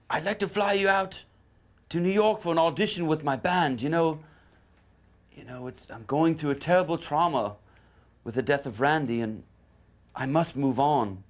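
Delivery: A rock singer. Retold or imitated. Singer inviting guitarist after bandmate's death, high impersonation. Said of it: "This is the singer".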